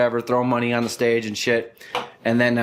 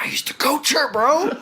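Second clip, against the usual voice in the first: much higher, strained with a laugh; panicked; 13 semitones higher than usual. Retold or imitated. Telling his friend about the dancer, high embarrassed squeak. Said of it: "I was like".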